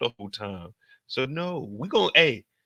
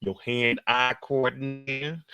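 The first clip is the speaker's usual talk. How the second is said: imitating Tommy. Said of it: "He talking about".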